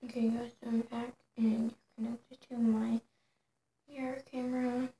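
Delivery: whispering. Real, not acted. Whispering to camera.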